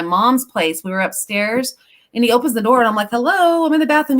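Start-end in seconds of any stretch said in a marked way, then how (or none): 3.1-4.2 higher, louder mock protest at the intrusion; mock indignant hello. Mother to son who opened the bathroom door, mock protest. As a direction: call out like you've been walked in on.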